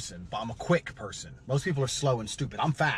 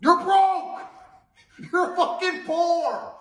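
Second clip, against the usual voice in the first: high, loud yelled insult; furious shout; 6 dB louder, much slower than usual. Acted. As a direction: yell it at him like an accusation. Yelling insult at viewer.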